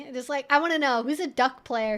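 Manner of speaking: ordinary talk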